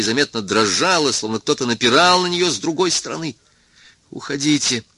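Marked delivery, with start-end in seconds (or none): 4.1-4.8 жалобно простонать, тише; умоляющий стон сквозь слёзы; плаксивый стон. A narrator's reading. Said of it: "простонал он странным плаксивым голосом". (плаксивая мольба)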